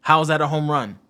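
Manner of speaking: sarcastic rant about the roof. Real, not acted. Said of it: "I'm being sarcastic".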